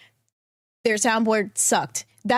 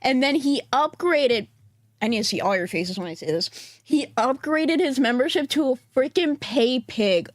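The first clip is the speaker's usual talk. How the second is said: with whitening tray. Real, not acted. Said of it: "I'm gonna also talk weird".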